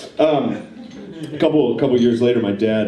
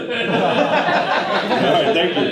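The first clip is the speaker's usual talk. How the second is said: sheepish thug; 11 semitones higher, much slower than usual. Retold or imitated. Thugs apologise to the family.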